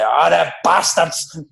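drawn-out mock exasperation through laughter; retold exasperation. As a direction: imitate the gaffer's dawning outrage, slowly. Retold gaffer realises the prank.

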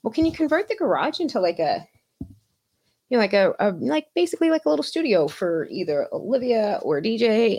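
hint of an upbeat friend; quoting Monica. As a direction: mimic her friend suggesting the garage. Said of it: "She was like".

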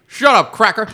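shouted high and loud; heckler yell. Retold or imitated. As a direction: bark it at the host mid-set. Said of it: "and he goes".

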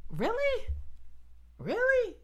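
high, incredulous squeak; mock disbelief. Mocking people who hear a too-tidy testimony, high incredulous disbelief.

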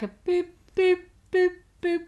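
high electronic boops; imitated phone noise. Co-host suggesting a Twenty-four sound effect, imitated phone boops. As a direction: mimic a TV-show phone beeping. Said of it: "phone noise that it does".

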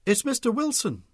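put-on teenager's high, loud call; called over shoulder. A narrator's reading. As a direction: call back to someone behind you. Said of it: "had called over her shoulder".

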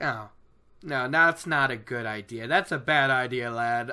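a hint of an old man, low-pitched warning; lightly voiced old man. Old man warning lad off his axe, lightly voiced. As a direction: lightly play a cautioning elder. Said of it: "and the old man's like".

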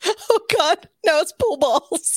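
high, drawn-out mock dismay; all-caps exclamation. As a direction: read the panicked note slowly in capitals. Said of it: "In all caps".

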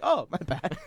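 imitating an unbothered "oops"; casual apology. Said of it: "It was so casual".

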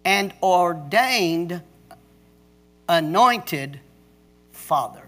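preached reading. Acted. Pastor reading a friend's text to the dads, declaiming. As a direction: proclaim it to the fathers like scripture.

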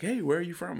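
imitating dad, upbeat. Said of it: "he's like".

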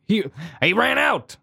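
high, lightly put-on Willem Dafoe voice; a quick, bad stab at Willem Dafoe; Willem Dafoe impression. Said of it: "my very bad, um, Willem Dafoe impression".

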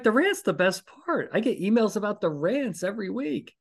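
high, hammed-up outrage at being skipped; mock indignant protest. Podcaster protesting to the attorney, playfully outraged and high. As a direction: pitch it way up, playfully offended that anyone skips the rant. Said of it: "I'm like".

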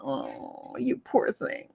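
soft pitying coo, swooping up high; overdone pitying sympathizer; mock pity. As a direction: lay the fake sympathy on thick. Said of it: "don't ever go to an animal and pity them".

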